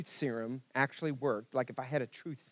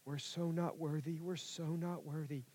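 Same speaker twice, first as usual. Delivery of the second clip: mock self-pity; 2 semitones higher, 7 dB quieter than usual. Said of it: "So many people are like".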